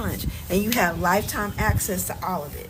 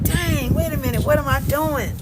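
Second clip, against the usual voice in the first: startled realization; 5 semitones higher than usual. Retold or imitated. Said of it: "You're gonna be like".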